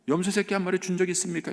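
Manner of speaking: high-pitched mock challenge; acted quibbling complaint; accusing demand. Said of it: "이렇게 따지는 거예요".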